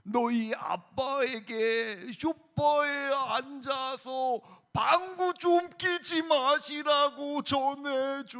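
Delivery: very slow, droning storybook character; put-on, long-drawn object voice; talking sofa voice. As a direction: drag every syllable as a talking sofa. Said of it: "쇼파가 이렇게 이야기합니다".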